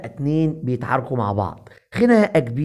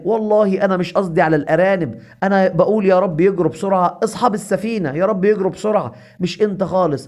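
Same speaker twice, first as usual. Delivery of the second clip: higher, earnest self-defence; mildly flustered, higher-pitched protest; protesting innocence; 4 semitones higher than usual. Acted. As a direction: plead that it's all a misunderstanding. Beaten Goha protests his innocence.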